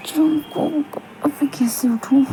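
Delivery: hushed and breathy, trying not to wake him; soft helpless whisper. Acted. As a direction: whisper your worry to yourself. Wife trapped beside sleeping husband.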